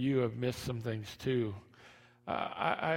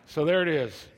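ordinary talk

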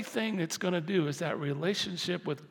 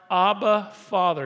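crying out; 4 semitones higher, 7 dB louder than usual. Acted. Scripture: we cry Abba Father.

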